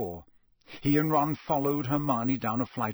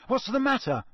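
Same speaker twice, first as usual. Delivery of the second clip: surprised; 12 semitones higher than usual. A narrator's reading. Harry asks.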